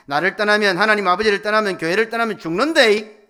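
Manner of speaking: high, shouted warning, phrase upon phrase; urgent warning. Acted. God warning his people against leaving, shouted plea. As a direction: cry out a desperate warning at full force. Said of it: "이렇게 말씀하고 계신 거예요".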